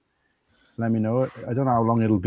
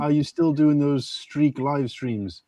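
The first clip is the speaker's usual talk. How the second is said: slowly reading a chat message; slow read-out quote; much slower than usual. Retold or imitated. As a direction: drag out the chat message word by word. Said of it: "Big Guy says".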